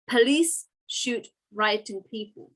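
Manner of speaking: "Police" leads, slightly punched, then measured; stress on Police. Shown as a demonstration. Teacher showing class where a headline's emphasis falls, stress on "Police". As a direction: read the headline slowly, leaning on "Police". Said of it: "Well, it's on police".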